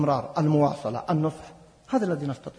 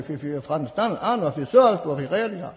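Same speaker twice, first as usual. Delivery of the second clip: ordinary talk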